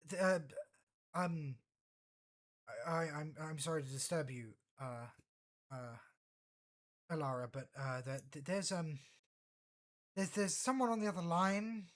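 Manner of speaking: lightly voiced stammering underling; a hint of jittery nerves, tripping over words; nervous Twi'lek aide. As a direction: aide nervously patching through a call, stammering. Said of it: "you hear the Twi'lek's voice come through".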